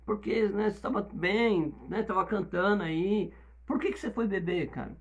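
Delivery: gentle pastoral questioning. Retold or imitated. Pastor softly asks the young member why he drank, in a gentle tone. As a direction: ask like a worried father, softly. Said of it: "eu chego pro Tom e falo assim".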